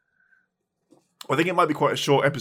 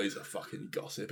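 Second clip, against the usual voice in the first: whispering a secret; 4 semitones lower, 14 dB quieter than usual. Real, not acted. Aside about Himmler gossiping.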